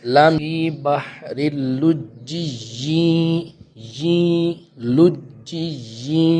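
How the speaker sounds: اللجی with doubled ج, slow chanted, then لجی held long; tajweed demo. Shown as a demonstration. Teacher drills the shadda in لجی for students, slow chant. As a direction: stress the shadda on ج in لجی, drawn out. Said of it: "لام جیم پیش لج".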